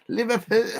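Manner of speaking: badly attempted Scouse; failed Scouse accent. Shown as a demonstration. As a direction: another unsure stab at a Scouser's accent. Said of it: "I can't do it".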